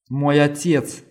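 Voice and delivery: a torn, loud outcry; cried out. A narrator's reading. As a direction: blurt the answer out in pain. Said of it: "выкрикнула Кэтрин".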